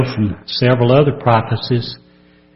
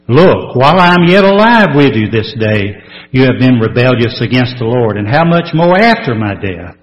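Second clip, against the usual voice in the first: 1 forceful scripture reading; 5 dB louder than usual. Real, not acted. Preacher reading Moses' warning loudly.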